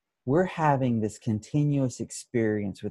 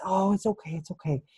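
soothing; 3 semitones higher than usual. Retold or imitated. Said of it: "she soothes me and she comforts me".

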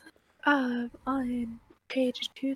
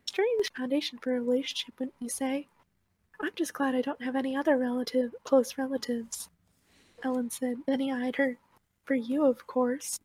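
louder, brisk reading voice; reading aloud from a book; 5 dB louder, faster than usual. A narrator's reading. Reading a favourite passage to friends, read-aloud voice.

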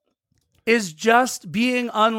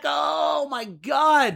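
excited shout; 6 semitones higher, much slower than usual. Retold or imitated. Reliving a last-minute near goal.

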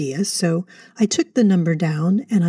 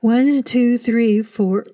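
counting fast; 5 semitones higher, much slower than usual. Acted. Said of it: "Slower, please".

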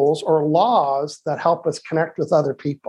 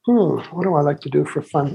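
thinking hmm. Real, not acted. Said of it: "That's always a challenging question to me".

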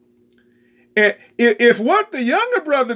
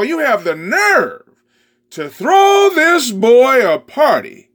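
angry son. Acted. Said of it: "stalked off in an angry sulk".

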